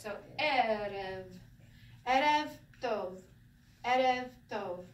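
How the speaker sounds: Erev said slowly, first syllable stressed; slow stressed demo. Shown as a demonstration. Teacher modelling Erev Tov slowly, first syllable stressed. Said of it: "The accent's first".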